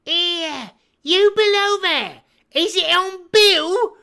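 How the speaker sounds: high, loud call downstairs; crying out. Acted. Blind beggar calling to the searcher below, loud cry. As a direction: shout down to the man below. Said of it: "cried the blind man again".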